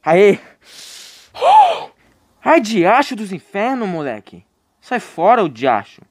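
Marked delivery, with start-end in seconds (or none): 1.4-1.9 very high startled gasp; sharp frightened gasp. Real, not acted. Gamer gasping as a monster appears.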